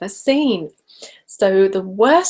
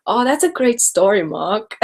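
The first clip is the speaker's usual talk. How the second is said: The Room quote; 3 semitones higher than usual. Acted. Vlogger quoting The Room because it's funny, hammed-up. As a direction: toss out a cult film line playfully. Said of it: "gonna be doing the room quotes".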